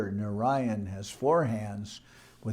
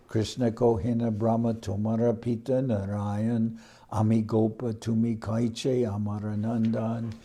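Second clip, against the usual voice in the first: verse recitation; 3 dB louder than usual. Acted.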